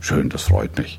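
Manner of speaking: flat, emotionless monotone with no feeling. Replying to something nice someone said, with no emotion: flat, emotionless. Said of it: "Mit wenig oder gar keinem emotionalen Ausdruck in der Stimme".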